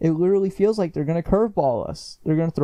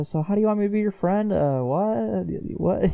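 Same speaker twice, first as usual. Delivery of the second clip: confused Goku; 6 semitones higher than usual. Retold or imitated. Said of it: "he's confused".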